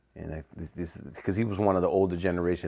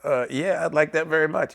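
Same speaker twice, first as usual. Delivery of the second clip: put-on eager young player; 11 semitones higher, 5 dB louder than usual. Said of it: "I'm like".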